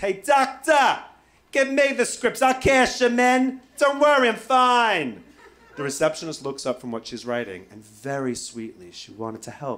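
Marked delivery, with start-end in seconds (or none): 0.0-5.2 shrill, high, slow, drawn-out yell. Retelling calling across the receptionist to the doctor: imitating someone yelling. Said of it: "I'm yelling across over the receptionist".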